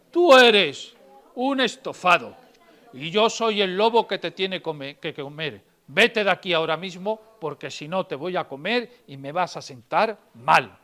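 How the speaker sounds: loud, slow telling-off; wolf scolding the sheep, loud and slow; stern wolf scolding. Acted. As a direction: lay down the law to the little sheep.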